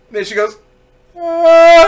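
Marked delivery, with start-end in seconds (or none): 1.2-1.9 high, loud, sustained mock wail; imitated child's wail. Little girl just lost her tooth, loud imitated wail. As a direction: wail like a kid starting to cry. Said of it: "She starts to cry".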